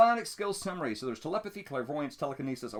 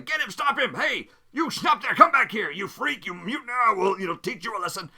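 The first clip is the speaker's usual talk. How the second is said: high, loud thuggish shouts; angry mob yelling; 9 semitones higher, 8 dB louder than usual. Acted. Mob yells at fleeing stranger, loud angry shouting. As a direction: yell after him like a chasing mob. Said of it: "six people who are yelling".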